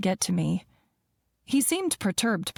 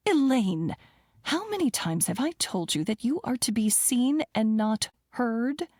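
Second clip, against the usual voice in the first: stern mother; 4 semitones higher than usual. Acted. Mother scolding the maid.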